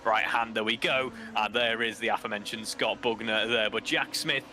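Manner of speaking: live race play-by-play; motorsport commentator. Acted. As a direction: call the race as it unfolds.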